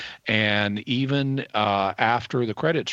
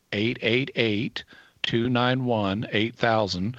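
slow phone number; slower than usual. Real, not acted. Radio host giving listeners the pledge line number, slowly. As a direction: read out slowly, digit by digit. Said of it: "learned to say it slowly".

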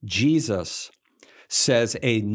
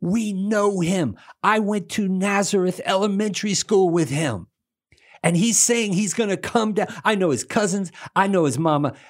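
indignant townsfolk; 7 semitones higher than usual. Retold or imitated. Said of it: "They say".

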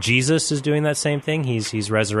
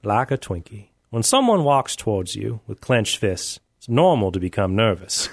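Morgan Freeman. Pretend. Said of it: "I'm trying to do Morgan Freeman".

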